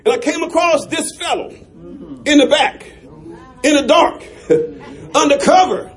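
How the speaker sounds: sailor's report broken by laughter; half-laughing sailor's report. Acted. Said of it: "a sailor comes up".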